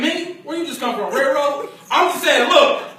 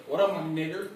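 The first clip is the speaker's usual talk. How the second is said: laughing through the greeting; 3 semitones lower, 5 dB quieter than usual. Shown as a demonstration. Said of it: "it just that".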